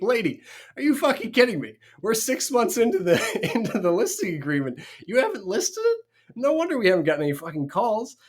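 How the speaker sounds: high, loud retold outburst; exasperated disbelief. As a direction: pitch leaps up in incredulous protest.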